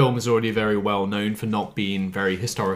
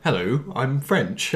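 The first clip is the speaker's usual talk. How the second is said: slow, lightly put-on proper English accent; a hint of mock Queen's English; mock French-as-English; 3 semitones higher, much slower than usual. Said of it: "what's the difference".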